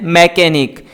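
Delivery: मैकेनिक with a full "me" first syllable, like "meh-KE-nik"; मैकेनिक mispronounced as "me-kenik"; common student mispronunciation. Shown as a demonstration. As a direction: say मैकेनिक the wrong way students do, open "meh" at the start. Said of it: "अक्सर student इस word को pronounce करते हैं".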